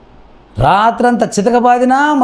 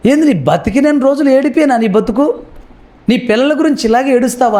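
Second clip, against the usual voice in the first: higher-pitched mock reproach; exasperated scolding; 4 semitones higher, faster than usual. Someone scolding a mother for always crying, acted exasperation.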